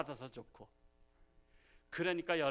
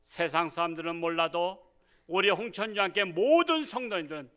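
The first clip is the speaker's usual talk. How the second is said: building, louder pulpit prayer; fervent prayer; 5 dB louder than usual. Acted. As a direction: pray with rising fervor to the congregation. Pastor leads prayer. (점점 뜨거워지는 기도)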